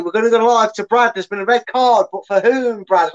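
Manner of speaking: excited pundit voice; Chris Kamara. Retold or imitated. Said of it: "I can do my best Chris Kamara".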